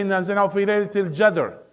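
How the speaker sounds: Sharjah qaf as "j" in "الجدر"; Sharjah accent. Shown as a demonstration. Teacher imitates a reciter from Sharjah, Sharjah accent. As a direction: recite it quickly Sharjah-style, Q turned to J. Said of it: "the one from, uh, Ash-Shariqa".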